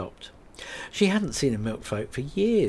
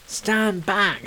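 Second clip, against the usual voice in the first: loud, higher command; shouted warning; 10 semitones higher, 5 dB louder than usual. Acted. Rose shouts at Kate to stand back, loud. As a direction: bark a warning before kicking. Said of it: "shouted Rose".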